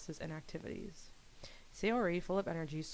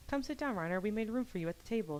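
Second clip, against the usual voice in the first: higher-pitched friendly invitation; a hint of eager hostess, pitched up; lightly voiced welcoming schoolgirl, eager; 4 semitones higher than usual. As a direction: lightly act a girl welcoming a newcomer.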